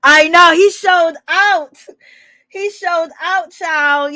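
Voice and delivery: high, loud, drawn-out disbelief; excited exclaiming. Real, not acted. Host marveling at Scrappy showing out, slow excited. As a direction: savour every word, scandalized.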